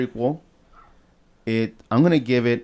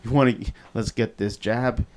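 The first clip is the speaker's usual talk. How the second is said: put-on sweet-talking a kid; lightly coaxing, kiddo tone; coaxing adult to child.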